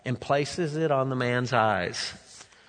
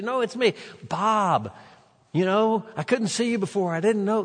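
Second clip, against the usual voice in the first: much higher, joyful calling out; excited shout; 7 semitones higher than usual. Acted. Healed blind man calling to his neighbors, excitedly. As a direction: burst out with it, thrilled.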